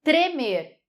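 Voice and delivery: tremer with the T and R both sounded; clear tremer. Shown as a demonstration. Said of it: "eu falo assim, ó".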